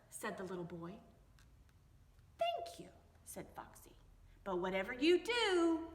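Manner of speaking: lively read-aloud with voices for each animal and person; story reading for children. A narrator's reading. Teacher reading a picture book to young children, lively storytelling. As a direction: read it to little ones, bright and playful.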